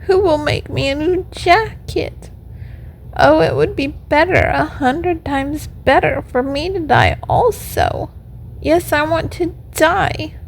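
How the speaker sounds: high, plaintive little puppet voice; acted tearful pleading, pitched well up; weeping puppet lament. A narrator's reading. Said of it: "as he wept".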